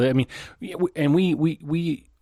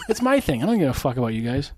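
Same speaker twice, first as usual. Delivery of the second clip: laughing. Retold or imitated. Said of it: "You're like".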